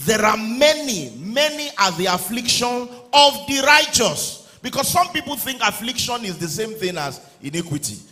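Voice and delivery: loud, rising preacher's cadence; full-force preaching. Acted. Pastor exhorting the congregation about David, loud preaching. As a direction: preach it out to the back pews.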